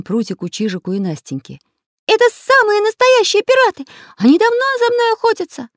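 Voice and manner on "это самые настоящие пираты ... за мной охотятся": high, loud excited shout. Acted. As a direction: call out the alarm loudly. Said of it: "прокричал Карандаш".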